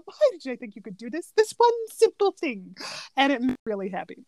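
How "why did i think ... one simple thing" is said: mild mock exasperation; exasperated Yzma. Quoting Yzma scolding Kronk, lightly exasperated. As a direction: sigh at an idiot henchman. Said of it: "I just love the".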